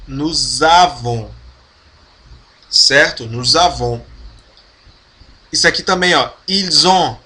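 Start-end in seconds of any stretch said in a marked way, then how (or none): 0.1-1.3 slow, nous avons linked with Z; slow liaison demo. Shown as a demonstration. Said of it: "S com som de Z". 6.5-7.2 ils ont with S as Z; linked liaison. Shown as a demonstration. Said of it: "O S com som de Z".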